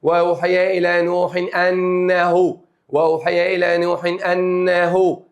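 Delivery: وأوحي إلى نوح أنه slowly, the nun of نوح sounded clearly before أنه. Shown as a demonstration. Teacher showing students: نوح أنه with a clear nun. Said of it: "اتنطقت؟".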